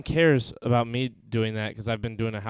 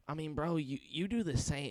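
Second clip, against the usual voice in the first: softer, lightly voiced buddy quote; imitated raspy friend; 4 semitones higher, 8 dB quieter than usual. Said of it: "he sounds real".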